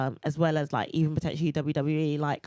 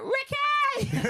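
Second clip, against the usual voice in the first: high yelled call of a name; shouting a name. Retold or imitated. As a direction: call out across the crowd. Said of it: "you were shouting out".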